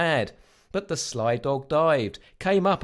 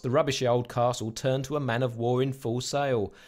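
usual speaking voice

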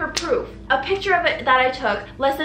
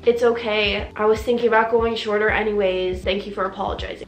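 lower, easygoing reassurance; forgiving; 4 semitones lower than usual. Pretend. Client accepting hairdresser's apology, forgiving. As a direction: let it go gently, pitched down.

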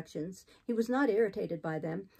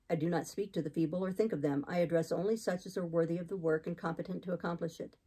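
lightly voiced austere man, slightly lowered; hint of a stern clergyman; resolute missionary; 3 semitones lower than usual. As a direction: announce it soberly, as a settled plan. Voices Saint John.

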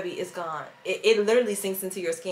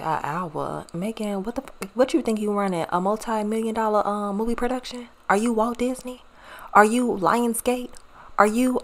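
sassy mock viewer; 3 semitones higher, 4 dB louder than usual. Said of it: "Y'all probably looked at it and said".

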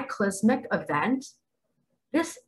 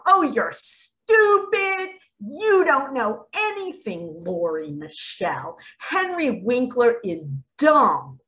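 whiny high sneer at first, slow and drawn out; hammed-up commenter voice; mocking angry commenter; 4 semitones higher than usual. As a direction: mimic a petty online troll. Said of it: "some of you are gonna be foaming at the mouth".

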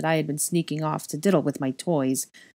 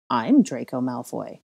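put-on slow, low line with "I'm" accented; stress on I'M; 4 semitones lower than usual. A narrator's reading. Double claiming the identity, slow with stressed "I'm". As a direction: lean on "I'm", then drop low.

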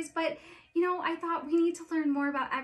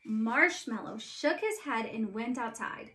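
story narration. A narrator's reading. Reads Frozen story aloud.

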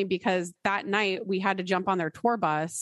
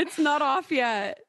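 laughing joke; 6 semitones higher, slower than usual. Real, not acted. Joking back about the wedding.

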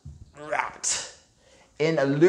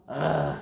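groaning. Shown as a demonstration. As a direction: groan once, half-hearted. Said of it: "Can you groan?".

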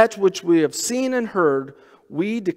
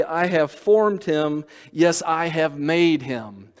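scripture reading. Acted. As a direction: read it out like a preacher giving God's promise. Reads Isaiah aloud in sermon.

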